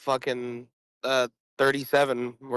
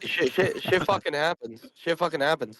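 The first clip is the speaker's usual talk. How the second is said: laughing; 3 semitones higher than usual. Real, not acted. Laughing after joke.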